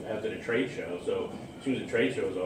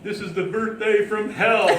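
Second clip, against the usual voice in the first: loud, high, drawn-out wail of complaint; exasperated mock shriek, stretched out; retold angry outburst; 10 semitones higher, 9 dB louder than usual. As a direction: imitate a furious fiancée crying out slowly. Retold outburst of upset fiancée.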